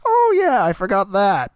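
high, loud "Oh yeah" as it suddenly comes back; mock sudden realization, loud and high; sudden remembering. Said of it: "it's like".

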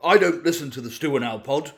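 lightly voiced bumbling politician; hesitant politician impression, with ums; Boris Johnson. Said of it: "Boris Johnson here".

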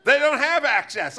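mock a patronizing politician; condescending. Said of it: "sounds like you're talking about a retarded child".

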